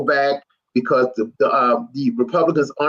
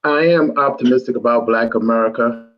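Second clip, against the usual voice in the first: gloomy; 4 semitones lower than usual. Real, not acted. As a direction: say it hopefully but sound downcast. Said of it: "Danny, you sound sad. You don't sound excited".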